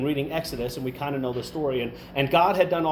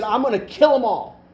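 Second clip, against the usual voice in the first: louder, higher mock threat; upset God; 6 semitones higher, 6 dB louder than usual. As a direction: play God snapping in exasperation. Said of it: "was upset".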